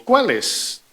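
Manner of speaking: asking which ones. Retold or imitated. The young man asking Jesus which ones, in a high rising question. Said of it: "esta pregunta".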